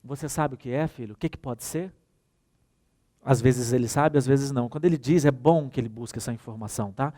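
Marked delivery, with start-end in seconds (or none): 0.0-1.9 put-on calm open question to a child; gentle asking. Shown as a demonstration. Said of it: "Pergunta, não chega falando tudo".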